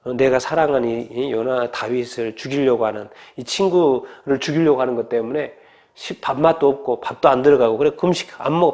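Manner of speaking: low, subdued retelling of a son's grief; sorrowful. Retold or imitated. Jonathan too upset over his friend to eat, understated sorrow. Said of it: "슬퍼해요".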